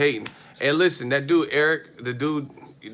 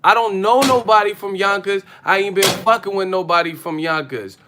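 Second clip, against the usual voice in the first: higher, louder defensive yell; loud defensive neighbor; 7 semitones higher, 8 dB louder than usual. Retold or imitated. Boyfriend yelling back at his girlfriend, mock loud denial. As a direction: shout it like you're denying everything. Man defends himself in argument.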